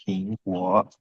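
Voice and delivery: "Ping" in second tone, "kuo" in third tone; Mandarin tones two, three. Shown as a demonstration. Teacher models the word's tones for students, "Ping, kuo" in tones two and three. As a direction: say "Ping, kuo" with rising tone, then dipping tone. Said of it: "Nada dua sama nada tiga".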